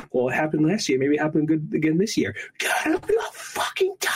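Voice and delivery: put-on kid tantrum. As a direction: sob it out like a furious spoiled kid. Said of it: "this whole freak out".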